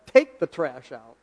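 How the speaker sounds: slow, firm order with the stress on "Take"; blunt command. Retold or imitated. Husband imitating his wife's command to take out the trash, slow and firm. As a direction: lean on "Take" and bark it flatly as an order. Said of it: "She said".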